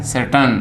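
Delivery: सर्टन ending in टन, not टेन; correct reduced vowel. Shown as a demonstration. Teacher corrects the टे sound, correct reduced vowel. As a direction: keep the last vowel of सर्टन short. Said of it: "टे नहीं".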